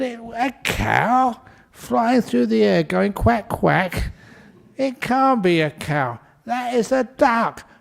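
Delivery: husband scoffing, slow and disbelieving; a hint of mock disbelief at his wife; incredulous husband. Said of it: "And he said".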